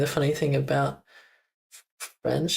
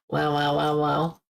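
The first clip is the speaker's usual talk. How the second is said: dog bark imitation. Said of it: "German dogs go".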